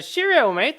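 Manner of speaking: very high, loud canned catchphrase; cheery rabbit companion. Acted. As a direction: chirp the same old rabbit catchphrase. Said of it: "you kill another ogre".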